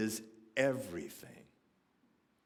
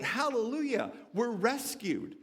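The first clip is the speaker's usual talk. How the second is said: high, hammed-up hallelujah cheer; put-on jubilant exclamation; mock rejoicing; 9 semitones higher than usual. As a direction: celebrate in pretend relief, pitch way up. Mock rejoicing disciples didn't do.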